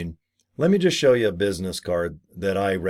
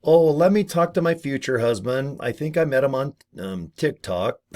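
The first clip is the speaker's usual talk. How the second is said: higher, scrambling mock excuse; flustered excuse; 4 semitones higher than usual. Caught out prospect, flustered high excuse. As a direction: make it up on the spot. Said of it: "And then you're like".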